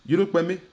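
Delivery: Yolo Kwame said high with the stress on Yolo; right tones. Shown as a demonstration. Teacher models Yolo Kwame's tones for repeating. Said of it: "avec les bonnes intonations".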